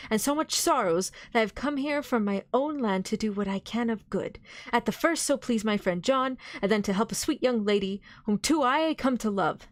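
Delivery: pleading, compassionate appeal; full of pity. Acted. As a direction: beseech him with tender pity. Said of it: "with an accent full of pity".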